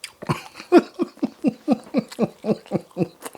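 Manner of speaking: high-pitched giggle of delight; delighted high laugh. Real, not acted. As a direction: laugh out of pure surprise at the taste. Delighted after tasting.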